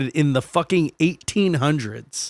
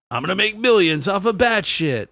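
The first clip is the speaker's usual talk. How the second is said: mock eager schemer; 6 semitones higher than usual. Voicing scheming dad.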